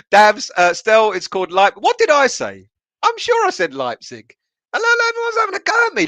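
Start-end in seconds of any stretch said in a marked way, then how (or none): 4.7-6.1 mock indignant protest. Chat mocks his pronunciation.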